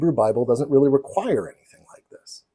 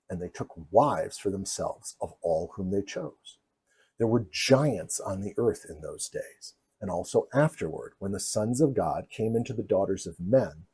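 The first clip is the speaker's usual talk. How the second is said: lower, softer measured recitation; scripture reading; 4 semitones lower, 6 dB quieter than usual. A narrator's reading. Lecturer quoting Genesis to viewers, lower and solemn. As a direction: read it as old solemn legend, voice sinking.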